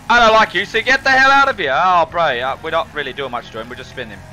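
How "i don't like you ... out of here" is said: mock anger. Telling off player Axel.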